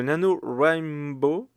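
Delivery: "Nano Rainbow" said slowly in a mild mock English accent; a light self-mocking English accent on "Nano Rainbow". Podcaster naming the writing challenge to listeners, mild mock English accent. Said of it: "j'adore mon accent anglais".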